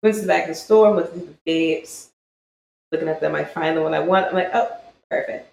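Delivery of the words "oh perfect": breathy whispered "Oh, perfect."; soft oh perfect. Retold or imitated. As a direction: say "Oh, perfect." almost unvoiced, under your breath. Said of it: "He just starts mocking me".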